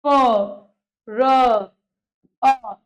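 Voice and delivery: प, र, अ held apart; slow phonetic breakdown; sounding out slowly. Shown as a demonstration. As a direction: give each sound its own beat. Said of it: "ऐसे आप देखिए".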